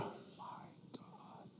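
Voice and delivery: slow, voiceless whisper; whispered mock dismay. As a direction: breathe it out slowly in mock despair. Whispered echo of acted complaint.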